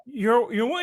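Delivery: put-on high, slow sweet old lady voice; little old lady. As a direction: coo at the kid like a sweet old granny. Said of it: "She goes".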